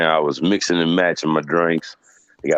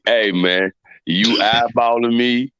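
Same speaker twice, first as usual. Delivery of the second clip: imitating a drunk; 4 semitones higher than usual. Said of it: "that's exactly what he kept saying".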